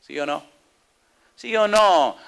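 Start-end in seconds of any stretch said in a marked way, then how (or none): 1.3-2.2 louder, higher challenge. Acted. Preacher pressing the congregation for an answer, loud and high.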